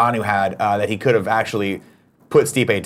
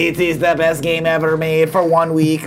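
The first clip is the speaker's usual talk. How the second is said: slow, gushing mock gamer; a hint of a hyped gamer; mocking impression; 4 semitones higher, slower than usual. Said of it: "were like".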